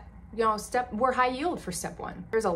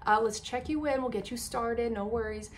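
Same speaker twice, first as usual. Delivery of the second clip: higher, sweet soothing voice; mock reassuring clerk; 4 semitones higher than usual. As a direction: coo like a kind receptionist. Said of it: "'cause she goes".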